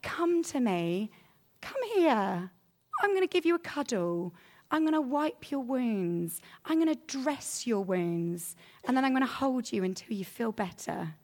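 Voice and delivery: put-on gentle, caring promise to a hurt child; comforting parent. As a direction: soothe them like you are holding them. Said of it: "we're gonna say".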